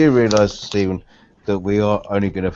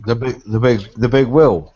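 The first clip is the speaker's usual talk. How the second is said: British big wheel; 4 dB louder than usual. Shown as a demonstration. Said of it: "The big wheel is a guitar".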